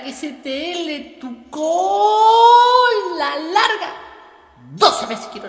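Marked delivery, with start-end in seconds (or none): 1.5-3.9 angry yell. Acted. Choique yells at Mara.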